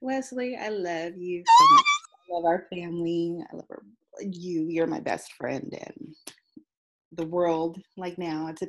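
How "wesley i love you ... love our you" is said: shout-out. Real, not acted. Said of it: "Give him a shout out".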